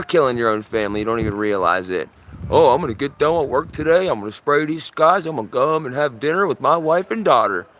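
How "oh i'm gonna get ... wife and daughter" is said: lightly mocking sing-song pilot voice; put-on carefree tone, mildly mocking; mocking imitation. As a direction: parody someone breezily chatting about their workday. Mocks the pilot's imagined thoughts.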